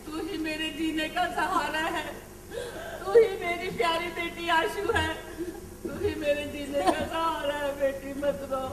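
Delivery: choked-up loving reassurance; tearful embrace. Acted. Mother embracing maid Asha as her daughter, tearful. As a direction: hold her close through tears.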